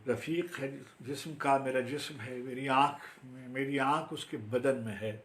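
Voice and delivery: firm opening easing into spaced phrases; formal Urdu verse recital; poetry recitation. Acted. Recites own Urdu poem.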